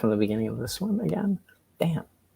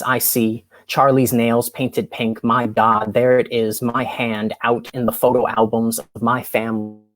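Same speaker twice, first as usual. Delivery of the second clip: measured spoken word poem; poetry reading. Acted. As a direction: deliver it like a slam poet. Reads poem Out.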